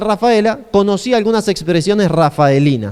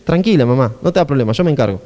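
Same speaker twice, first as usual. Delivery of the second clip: lower-pitched, calming son's voice; tender reassurance; 5 semitones lower than usual. Acted. Son calms his mother about the wine, reassuring. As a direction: settle her worry gently. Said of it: "Es como diciéndole".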